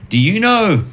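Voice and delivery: lightly voiced eager guy; a hint of a proud nerd; clumsy pickup question. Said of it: "And he goes".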